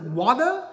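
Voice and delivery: "Water" with the final r dropped, questioning; alternative pronunciation. Shown as a demonstration. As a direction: try "Water" as "wah-tuh", rising. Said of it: "how do you want me to pronounce it?".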